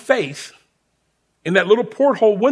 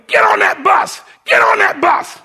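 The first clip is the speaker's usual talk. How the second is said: higher, louder repeated shout; retold yelling; 8 semitones higher, 4 dB louder than usual. Sergeant chasing recruit to the bus, imitated yell. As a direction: chase him down the street yelling.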